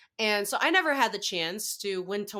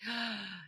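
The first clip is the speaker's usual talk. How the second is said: soft gasp of eager awe; imitated gasp; 10 dB quieter than usual. Retelling an actor's reaction to seeing a co-star, soft gasp. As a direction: quietly mimic an excited intake of breath.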